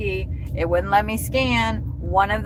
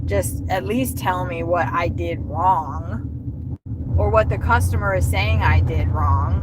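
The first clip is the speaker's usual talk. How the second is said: frustrated plea; 5 semitones lower than usual. Real, not acted. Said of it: "It's just very frustrating".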